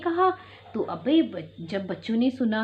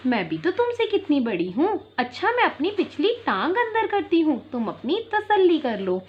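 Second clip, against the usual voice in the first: sweetly coaxing; 3 semitones higher than usual. Acted. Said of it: "लोमड़ी बड़ी मिठास से बोली".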